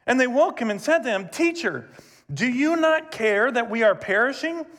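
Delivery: measured reading of the gospel passage; scripture reading. Acted. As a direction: read the text steadily aloud.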